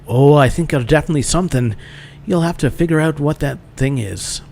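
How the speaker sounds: lightly faked Irish lilt; bad Irish accent. Instructor encouraging a student, bad Irish accent. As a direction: put on a loose Irish brogue. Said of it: "It's the worst Irish accent ever".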